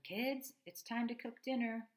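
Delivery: loud, high call up the stairs; hollering. Acted. Father calling the kids down for dinner, loud holler. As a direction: shout it up to the kids upstairs.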